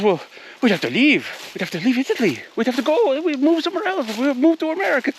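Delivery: high, hammed-up Italian accent that keeps climbing to the end; a clumsy Italian accent, built up for the punchline; attempted Italian accent. Italian boyfriend threatening to move to America, in a bad Italian accent. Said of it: "I can't do an Italian accent".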